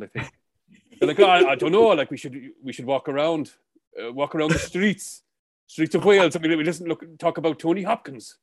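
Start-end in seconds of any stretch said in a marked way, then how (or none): 1.2-8.4 a hint of a Welsh accent, lightly put on; bored Welsh local in a light, jokey Welsh accent; mock Welsh accent. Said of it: "This is a Welsh accent".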